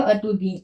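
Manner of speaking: "अतुदिए" starting with uh: uh-tu-dee-ay; unaccented first vowel. Shown as a demonstration. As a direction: open "अतुदिए" on a neutral schwa. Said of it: "तो इसका हो जाएगा".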